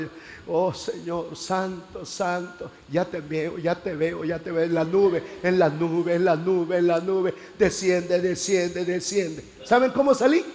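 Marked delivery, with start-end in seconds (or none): 0.5-9.4 rezo repetitivo que va subiendo de fuerza; oración ferviente actuada. Retold or imitated. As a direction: imitar una súplica extática, frases encadenadas. Reenacts his fervent prayer seeking baptism. (plegaria insistente y monótona)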